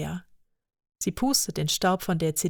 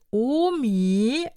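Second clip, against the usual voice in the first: put-on childlike interruption; 6 semitones higher, 4 dB louder than usual. Lea interrupts grandma.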